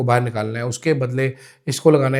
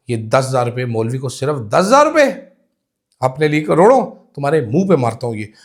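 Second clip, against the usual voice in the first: mock outrage, rising louder on key words; indignant retort; 3 dB louder than usual. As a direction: throw it back in scornful protest, acted out. Acting out an indignant retort to madam. (बनावटी ग़ुस्से में तंज़)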